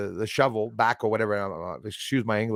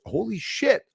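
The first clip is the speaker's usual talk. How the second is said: retold excitement; 8 semitones higher than usual. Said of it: "I said".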